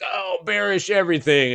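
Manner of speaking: high, mock-serious bear voice; a lightly put-on doom-caller voice; mocking the doom guru. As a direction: parody a gloomy market prophet. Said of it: "And it's like".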